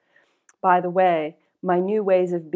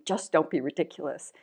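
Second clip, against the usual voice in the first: softly dropped inner aside; mild, quiet self-rebuke; dismissive shrug; 2 semitones lower, 5 dB quieter than usual. Retold or imitated. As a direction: shrug it off under your breath. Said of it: "what the shrug feels like on the inside".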